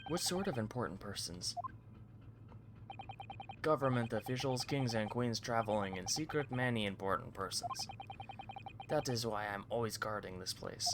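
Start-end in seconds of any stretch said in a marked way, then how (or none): 3.6-10.9 Russian sailor boasting. Acted. Guard brags about the VIP cabins, lightly Russian-accented. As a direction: show it off like a proud Russian guard.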